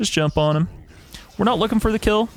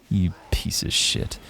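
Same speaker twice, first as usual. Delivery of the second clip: a hissed whisper under the breath; whispered insult aimed at the developer; whispered curse; 6 semitones lower, 5 dB quieter than usual. Real, not acted. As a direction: spit it out in a whisper, seething. Cursing dev under breath.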